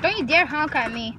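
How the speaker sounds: warning telling-off; stern warning, stress on dare; annoyed. Real, not acted. Scolding a honking car.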